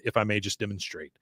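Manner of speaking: low, soft, lightly passive-aggressive offer. Retold or imitated. Mother offers to show how to clean, mildly passive-aggressive. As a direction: quote it softly, politely undercutting. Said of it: "that is her passive aggressive phrase".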